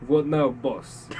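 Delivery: put-on slow, thick Russian accent; Russian henchman asking in accent. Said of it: "in a thick Russian accent".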